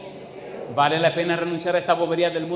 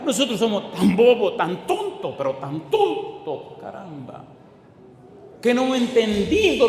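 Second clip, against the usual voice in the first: laughing at ourselves; 5 semitones higher than usual. Real, not acted. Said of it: "self-mocking laugh".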